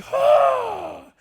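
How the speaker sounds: loud, high comic scream; hammed-up yell of an injured player; reenacted cry of pain. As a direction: scream it out high, mock agony. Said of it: "And I was like".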